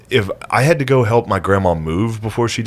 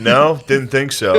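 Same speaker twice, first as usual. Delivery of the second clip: slower, laughing taunt; teasing uncle laughing; 3 semitones higher than usual. Retold or imitated. An uncle mocking his nephew, laughing and slow. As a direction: rub it in through a laugh.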